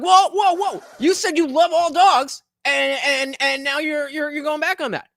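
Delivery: high, loud, indignant mock whining; mock accuser. Streamer mimics a gotcha debater, high and loud. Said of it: "you're like".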